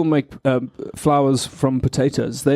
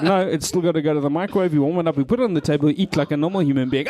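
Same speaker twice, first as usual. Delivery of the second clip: fast; 2 semitones higher, faster than usual. Retold or imitated. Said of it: "I was like".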